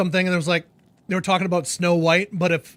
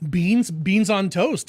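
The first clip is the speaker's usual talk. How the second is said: slow savouring; much slower than usual. Acted. Savouring British dish.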